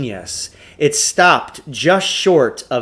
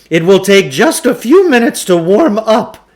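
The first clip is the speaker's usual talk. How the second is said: grand huckster; 8 semitones higher, 7 dB louder than usual. A narrator's reading. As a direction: announce it like a fairground pitchman. Klugarsh voiced in story.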